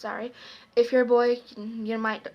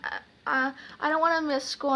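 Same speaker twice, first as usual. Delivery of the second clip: softly put-on reluctant pleading; a mild pretend sadness, hesitant; acted sad; 2 semitones higher, 4 dB quieter than usual. Daughter faking it to stay home, mock sad. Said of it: "I acted so sad".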